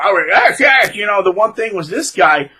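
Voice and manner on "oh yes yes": mock smug approval. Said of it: "Or, or".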